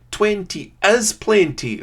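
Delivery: high, loud, slow mock Scottish impression of a sketch; bad Scottish accent. Gamer mimicking a comedy sketch in a bad Scottish accent. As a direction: ham up a Scottish accent, drawing it out. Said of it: "that's an appalling Scottish accent".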